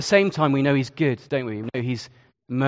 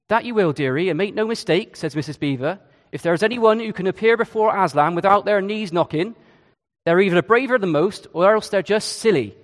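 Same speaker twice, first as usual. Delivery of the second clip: a Mrs Beaver voice in a put-on accent, pitched higher; 4 semitones higher than usual. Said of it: "Sorry about the accent".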